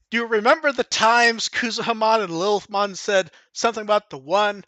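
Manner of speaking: lightly voiced, badly faked hero line; a hint of a clumsy hero; horrible Hiro impression. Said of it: "that was fucking horrible".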